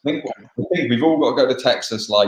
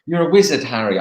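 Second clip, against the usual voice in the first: put-on raised, punchy English-accent movie line; performed English-accent quote, pitched up; 3 semitones higher, 3 dB louder than usual. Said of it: "in an English accent".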